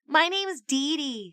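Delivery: put-on high, small girl's voice. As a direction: say it small and bright. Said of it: "Her voice was small".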